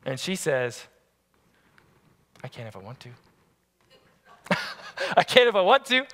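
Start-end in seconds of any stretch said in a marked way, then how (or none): 2.4-3.1 put-on sassy little girl. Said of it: "she's a little sassy girl". 5.2-6.0 put-on bratty kid retort, higher and louder; mock the sassy daughter's comeback; sassy girl's hands-on-hips reply; sassy little girl. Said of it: "she's a little sassy girl".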